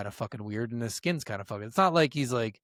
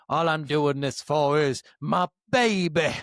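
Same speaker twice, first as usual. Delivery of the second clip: imitating louse; 3 dB louder, slower than usual. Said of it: "He's like".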